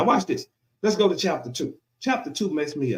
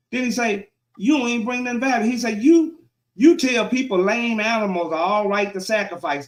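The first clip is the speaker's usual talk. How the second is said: emphatic sermon delivery of scripture; preaching God's words; 3 semitones higher than usual. Acted. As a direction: preach it as God's complaint, pausing between phrases.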